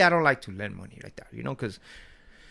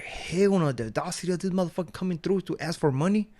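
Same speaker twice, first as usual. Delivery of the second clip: indignant; 6 semitones higher than usual. Retold or imitated. Indignant retort.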